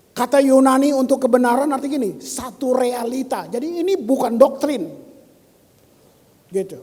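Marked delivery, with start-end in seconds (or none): 0.1-4.8 emphatic preaching. Real, not acted.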